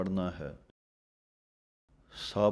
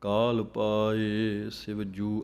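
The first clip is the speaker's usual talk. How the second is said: slow recitation; much slower than usual. Acted. Slow verse.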